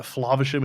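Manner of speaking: Flaversham with a long "ah" held back in the throat; Scottish glottal A. Shown as a demonstration. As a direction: say Flaversham Scottish-style, "Flahversham". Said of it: "long A is more of a glottal".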